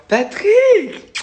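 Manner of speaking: high, loud call of a name. Real, not acted. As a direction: shout the name across the room. Calling out a name loudly.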